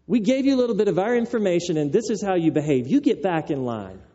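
mildly indignant, hurried scolding; angry rebuke. Acted. Crowd to the crying blind man, a mild angry rebuke. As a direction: act out an upset telling-off. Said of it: "rebuking him, angry. They're upset".

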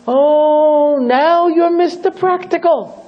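sarcastic retort. Retold or imitated. Yehuda mocking the cautious followers, sarcastic and high. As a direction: scoff at them.

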